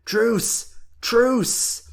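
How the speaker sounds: mother begging for a truce, high and loud. A narrator's reading. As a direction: beg breathlessly for mercy. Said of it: "Antonia would beg".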